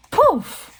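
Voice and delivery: high, quick magic puff; spell exclamation. Acted. Grandma Shark tries to lengthen the pencil, spell exclamation. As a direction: fling out the magic word high.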